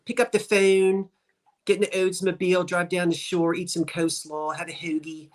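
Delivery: quick South Jersey accent demo. Shown as a demonstration. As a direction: Delaware Valley accent, rattled off as a list. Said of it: "do we really sound like that".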